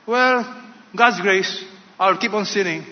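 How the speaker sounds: presumptuous attitude. Acted. Sinner excusing himself with God's grace, presumptuous attitude. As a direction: lightly play someone taking grace for granted. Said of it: "with such attitude".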